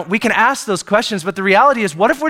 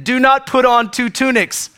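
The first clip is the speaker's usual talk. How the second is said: Jesus adding a rule; 6 semitones higher than usual. Retold or imitated. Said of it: "Jesus added".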